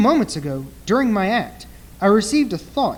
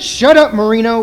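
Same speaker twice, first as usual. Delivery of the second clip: sharp shut up; 9 dB louder than usual. Acted. Marlowe cutting off the club owner, loud and sharp. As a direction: silence him fast.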